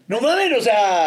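high, laughing outburst; excited retelling. Retold or imitated. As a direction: blurt it out laughing. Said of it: "era un rollo de".

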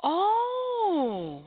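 high startled oh; shocked gasp. Real, not acted. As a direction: gasp of surprise. Sudden shock at story.

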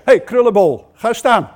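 brusque hey to a stranger by his hair; offhand call by a nickname; rude call. Shown as a demonstration. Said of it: "Dat klinkt al heel anders".

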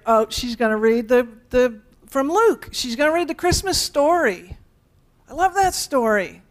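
rendering of an eager listener expecting the Christmas story; gushing churchgoer. Pretend. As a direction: ham up a delighted churchgoer's thought. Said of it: "You like my rendering of that?".

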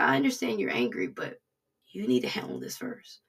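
low, measured voice of understanding; quiet, low retold counsel; calm divine reply. God calmly answers her angry protest.

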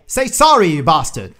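mock indignant retort; mock angry demand. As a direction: pretend to be offended. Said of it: "the person would say".

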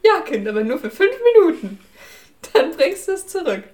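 high, loud hammy mom voice; mother voice. Acted. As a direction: grant it like an indulgent mother. Answers as mother to child.

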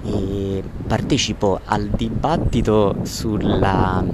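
noisy street recording; phone recording outdoors; bad audio from the street. Real, not acted. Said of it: "Scusate l'audio incasinato".

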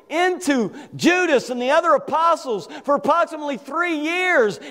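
forceful sermon voice; impassioned preaching. Real, not acted. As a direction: preach the betrayal with conviction.

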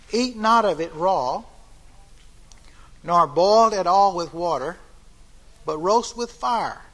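preacher reading scripture with rising force; solemn scripture reading. Acted. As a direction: proclaim the Passover law to the congregation. Reads Passover instructions aloud.

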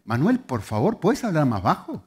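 exasperated, restrained parental scolding; tense, reproachful request; condemning tone. Retold or imitated. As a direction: reprimand without raising the voice. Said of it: "le hablo con condenación".

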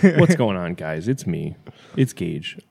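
a hint of a vlogger intro; mock YouTuber hype; YouTuber greeting. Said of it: "that was pretty crude".

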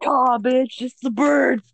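high screeching bird voice; shrill screeching bird woman. Acted.

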